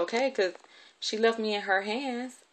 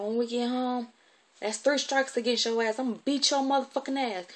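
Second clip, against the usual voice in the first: higher-pitched angry threat; threatening scolding; 5 semitones higher than usual. Retold or imitated. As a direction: imitate the guardian promising punishment. Guardian threatens a beating.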